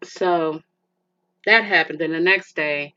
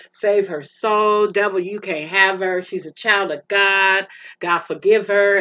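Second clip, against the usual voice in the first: crying out; 2 semitones higher, 5 dB louder than usual. Retold or imitated. Daughter crying out to God for her mother. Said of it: "I was just crying out".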